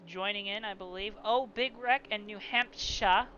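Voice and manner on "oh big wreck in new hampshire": slow, badly faked New England accent; half-hearted New Hampshire accent, dropping the R. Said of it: "I'm trying, Ricky".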